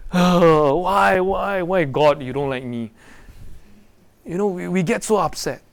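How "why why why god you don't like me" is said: a light send-up of a self-pitying whine, louder; mock whining complaint. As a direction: ham up a sulky "why me". Mocking a complaining believer.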